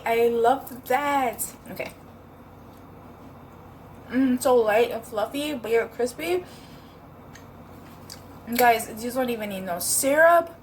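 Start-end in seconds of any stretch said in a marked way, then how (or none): 4.1-10.6 talking through a mouthful of waffle; chewing while speaking; mouth full. Real, not acted. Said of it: "I was just talking with my mouth full".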